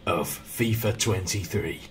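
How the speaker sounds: slow northern show announcer; Sean impression. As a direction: drag out the intro in a put-on northern voice. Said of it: "I sound like Sean".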